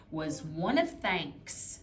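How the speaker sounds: Was one of thanks read slowly in one smooth sweep; scooped phrase. Shown as a demonstration. Teacher models a longer phrase for a student, slow smooth sweep. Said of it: "Now watch me do this one".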